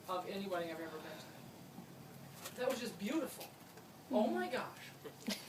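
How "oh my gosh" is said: slow drawn-out oh my gosh; a lightly voiced David, stretched slow; David imitation. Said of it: "that's my David imitation".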